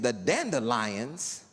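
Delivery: lightly voiced gentle white neighbor; mock earnest neighbor. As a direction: savor each word like a wonder.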